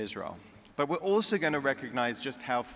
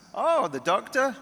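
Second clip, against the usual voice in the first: put-on much higher, louder, slow eager old lady; friend Sadie; 12 semitones higher, 8 dB louder than usual. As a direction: ask hopefully like a nosy friend.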